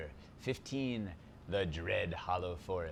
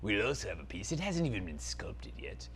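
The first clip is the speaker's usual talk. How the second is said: dark lord; 3 semitones lower than usual. Acted. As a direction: savour every word like an evil prince. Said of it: "Zaltar, Prince of Phantasm".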